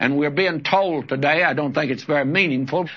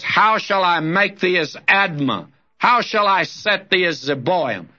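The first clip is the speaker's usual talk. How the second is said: solemn scripture reading, slightly raised; God's words read aloud; 2 semitones higher than usual. Acted. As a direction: read it as God pleading with his people.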